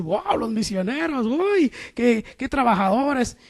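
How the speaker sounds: stretched, wowed exclamations; imitated admiration. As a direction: gush like an impressed onlooker. Imitates people admiring the missionaries.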